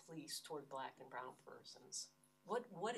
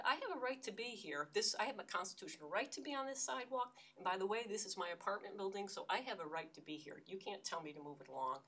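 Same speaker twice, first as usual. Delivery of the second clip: defiant shouting; 4 semitones higher, 3 dB louder than usual. Retold or imitated. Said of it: "I was able to scream at a cop".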